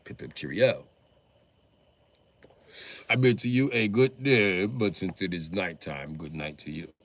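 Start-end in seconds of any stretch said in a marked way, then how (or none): 0.0-4.7 mock posh English.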